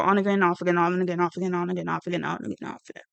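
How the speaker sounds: singsong list fading away to nothing; rattled-off repetition. Real, not acted. Recounting Shane's words on the breakups, rattled off and fading. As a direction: reel it off, letting it die away.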